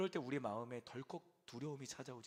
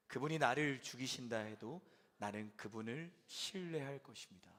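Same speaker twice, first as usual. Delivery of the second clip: congregational reading. Real, not acted. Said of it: "함께 한 목소리로 읽겠습니다".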